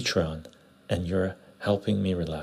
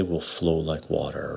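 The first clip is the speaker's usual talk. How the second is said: a hint of a calm martial-arts sage; Bruce Lee; 3 semitones lower than usual. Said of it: "As Bruce Lee would say".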